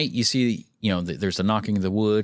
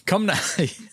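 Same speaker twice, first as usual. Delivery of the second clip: whisper; 6 semitones higher than usual. Acted. Spooky narration aside.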